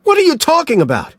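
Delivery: very fast, high and loud retort; frantic return shout; shouted back. A narrator's reading. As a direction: fire it straight back. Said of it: "Mills shouted back".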